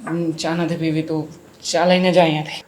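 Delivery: low, soft and curt, dismissing her; low curt husband sending his wife away; low curt brush-off. Acted. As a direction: wave her off with a low grumble.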